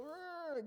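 high frightened growl; imitated whimper of fear; mock cowering noise. High, softish cowering "rrr". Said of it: "they're cowering in fear".

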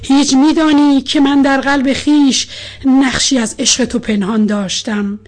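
impassioned love poem, rising and subsiding; measured verse reading, strong openings, softened line endings; poetry recitation. A narrator's reading. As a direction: recite with feeling, long pauses between verses.

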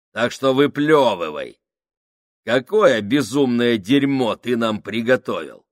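громче и выше, насмешливо; дави на него в полный голос; громкий напор. Acted. Сакс давит на Крайчика. (Сакс подгоняет Крайчика, громко и с издевкой)

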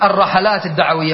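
الرحلات as ar-ra-ḥa-lāt, first vowel a; common mispronunciation. Retold or imitated. Teacher quotes what many people say, الرحلات as ar-ra-ḥa-lāt. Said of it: "الرحلات هذه خطأ".

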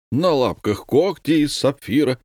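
parroting it back to mock; mocking parody. A narrator's reading. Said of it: "пародировал комендант".

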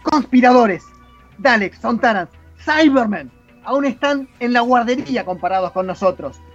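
dramatic reading of the Doctor's tirade; the Sixth Doctor. Acted. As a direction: declaim an outraged speech against a corrupt civilisation. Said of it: "Buena interpretación".

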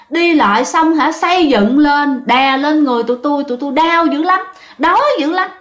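a buried spirit complaining of pain and hunger; mild whimpering ghost; plaintive ghost lament. Retold or imitated. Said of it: "nói rằng á hả".

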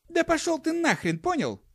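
high, sharp monkey wife voice; furious dismissal; shouted. Acted. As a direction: spit it at him. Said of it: "крикнула самка".

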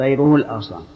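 طيره الأغصان with "ru" in طيره; damma on the r. Shown as a demonstration. Teacher showing the joined reading, طيره said with damma. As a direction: join it as "tayruhu l-aghsan", u after r. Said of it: "بالراء، ضم الراء".

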